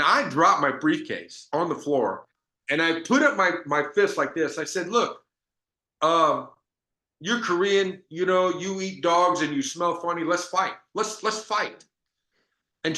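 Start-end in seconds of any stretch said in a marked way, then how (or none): 4.9-11.8 higher-pitched playful provocation; mock fighting challenge. Salesman squaring up to a hostile shop owner, mock-combative.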